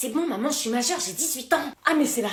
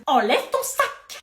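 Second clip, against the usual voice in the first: stern order; 4 semitones higher, much slower than usual. Acted. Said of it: "crie pas".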